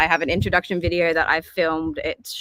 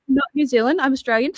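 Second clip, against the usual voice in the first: indignant, pitched higher, laughing; higher mock-offended protest, laughing; 8 semitones higher than usual. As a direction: huff at being called a Kiwi. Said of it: "which I took as an insult".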